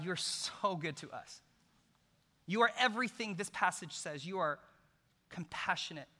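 heartfelt prayer that builds and then hushes; closing prayer. Acted. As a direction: pray over the congregation with rising fervor.

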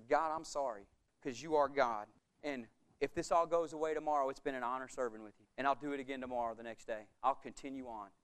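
soft, low, hushed apology; whisper-close repentance after a rebuke; humbled and scared. Retold or imitated. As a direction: pastor quietly apologizing to God. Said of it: "I got scared quiet".

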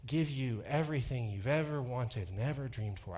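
breathy televangelist voice; lightly breathy soothing preacher; Joel Osteen breathy voice. Retold or imitated. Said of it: "I start to talk in a real breathy voice when I think about imitating Joel Osteen".

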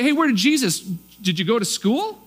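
belittling jab at his learning; mocking locals. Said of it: "they say".

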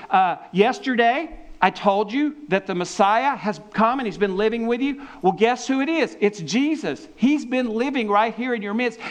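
preacher voicing John the Baptist's excited reveal; John the Baptist announcing. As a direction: announce it like big news to the crowd. John the Baptist voiced announcing Messiah.

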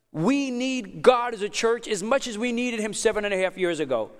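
urging a congregation from the pulpit; impassioned preaching. Real, not acted. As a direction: preach it with conviction, driving each point home. Preaches with raised intensity.

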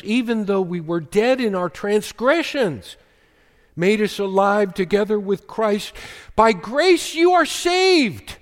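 rising preacher's crescendo; climactic proclamation. Acted. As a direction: swell up and proclaim the verse's climax. Preacher climaxes the scripture reading.

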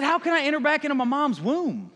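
high, puzzled mock disbelief; hammed-up bewildered question; incredulous question. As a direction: ask it baffled, pitch jumping up. Nicodemus's incredulous question, acted.

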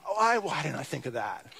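chuckling self-mockery; laughing mock realization. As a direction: laugh through a mock 'why didn't I'. Mocking Moses' realization.

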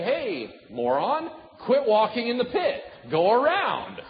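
loud, high, insulting call-out; mock rebuke. Friend yelling a mock rebuke at a fool in a pit.

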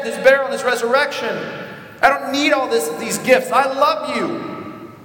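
a father welcoming the estranged back; God's loving voice. Retold or imitated. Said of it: "And he says".

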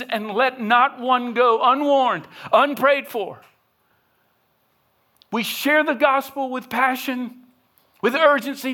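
high, loud, urgent pulpit voice; preaching at full force. Acted. Pastor pleading with the congregation to share the gospel, impassioned. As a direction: plead with the room at full volume.

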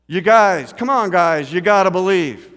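imitated coach's pep-talk shout; Mister Wambach. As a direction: urge the team on like a coach. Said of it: "that Mister Wambach said".

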